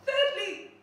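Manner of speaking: "Thirdly" called out loud and high; emphatic thirdly. Acted. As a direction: announce "Thirdly" like a big reveal. Counting points on stage.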